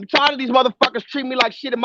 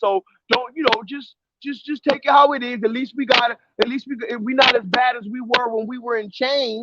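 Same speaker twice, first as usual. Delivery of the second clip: ordinary delivery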